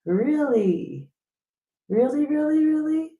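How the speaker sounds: can't believe it; mock incredulous; disbelief. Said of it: "I'm like".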